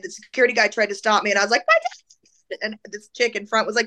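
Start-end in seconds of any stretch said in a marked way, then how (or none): 1.7-2.6 very high-pitched desperate yelp; high panicked squeal; frantic retold cry. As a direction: cry out while pushing past. Retold cry to security guard.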